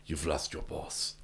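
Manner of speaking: slow, soft, wooden line reading; imitating a stiff action hero; bad acting. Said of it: "No one else could deliver it like that".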